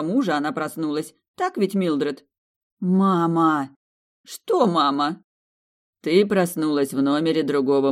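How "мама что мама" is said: sudden alarmed outcry, falling; startled cry. Acted. Woman waking in a strange room, startled cry. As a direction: gasp it out in shock.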